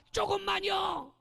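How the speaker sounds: high, slow whiny plea; child pleading. Retold or imitated. Child begging to keep playing. (엄마에게 조금만 더 놀겠다고 조르는 아이)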